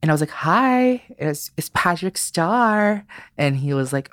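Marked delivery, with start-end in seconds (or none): 0.3-3.1 high, loud and slow bright hello; high showy hello; excited greeting. Retold or imitated. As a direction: greet the stunned fan brightly. Greeting a surprised fan.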